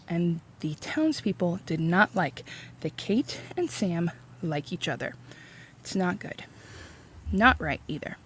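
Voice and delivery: hushed whisper. Real, not acted. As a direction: lean in and whisper it. Hushed aside about the townspeople.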